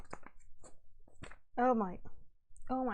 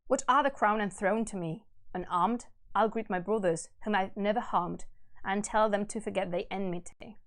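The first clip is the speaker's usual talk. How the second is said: low, measured verse reading; stately, subdued storytelling; solemn epic narration; 3 semitones lower than usual. A narrator's reading. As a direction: read it gravely, letting the phrase ends settle. Reads epic aloud.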